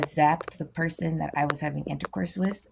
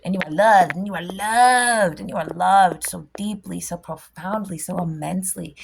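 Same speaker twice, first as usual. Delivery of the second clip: emphatic blessing; 5 dB louder than usual. Real, not acted.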